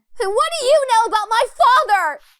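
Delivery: very high-pitched, loud, angry outburst. A narrator reads a character's outburst about his own father, angry shout. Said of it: "I shout without realizing".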